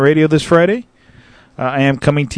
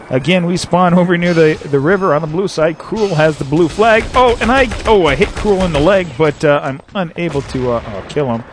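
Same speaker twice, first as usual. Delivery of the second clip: light play-by-play; 2 semitones higher than usual. Acted. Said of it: "play and shoutcast at the same time".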